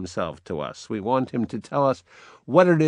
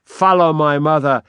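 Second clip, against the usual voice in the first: powerful irony; 2 semitones higher, 5 dB louder than usual. Acted. Hamlet mocking the king's marriage, powerful and ironic. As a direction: lean hard on the irony. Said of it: "very powerfully and ironically".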